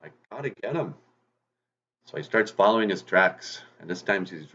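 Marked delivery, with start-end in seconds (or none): 0.0-0.9 very high, loud indignant fox; fooled fox exclaiming. Acted. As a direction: wail it out, tricked again. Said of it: "And Wagosh goes".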